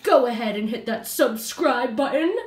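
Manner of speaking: cheesy promo voice. Acted. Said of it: "So cheesy".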